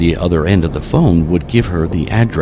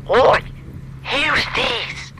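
put-on high-pitched woman down the phone, thick Rockfarian accent; husky accented caller; 4 dB quieter, much slower than usual. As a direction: demand answers as a rough local caller on the line. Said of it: "husky voice of a woman with a thick Rockfarian accent".

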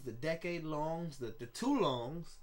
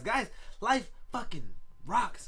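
exuberant; 5 semitones higher, 5 dB louder, slower than usual. Real, not acted. Exuberant declaration to viewers.

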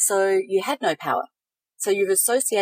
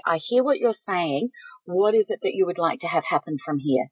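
slowed, even and unhurried; very calm. Shown as a demonstration. Coach modelling a reply to someone yelling, very calm. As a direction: answer a yeller with steady calm. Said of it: "Very calmly".

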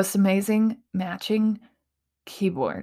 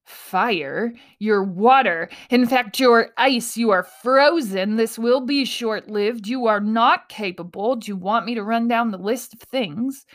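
voice of the narrative. Retold or imitated. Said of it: "That's saying".

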